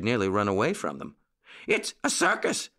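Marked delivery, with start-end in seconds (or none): 1.7-2.7 high-pitched, gleeful puppy voice; excited puppy cry. A narrator's reading. Both puppy boys break the news to Uncle Wiggily, high excited cry. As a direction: cry it out high like little pups. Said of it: "cried Jackie and Petey".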